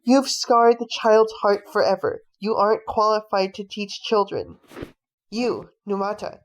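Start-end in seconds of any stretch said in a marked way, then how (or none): 0.0-4.6 louder, biting scolding; angry rebuke. Acted. Father furiously scolds the teacher for hurting his child. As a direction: tear into him for hurting the child.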